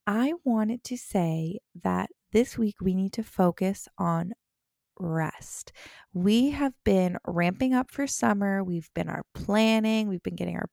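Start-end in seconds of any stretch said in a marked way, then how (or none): 5.0-5.7 whispered. Acted. Stressing the key word rest.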